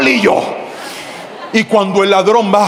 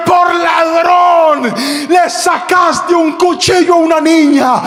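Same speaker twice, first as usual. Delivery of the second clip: retold shout; 6 semitones higher, slower than usual. Pastor shouting at the thief he just hit. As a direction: hurl the accusation at him.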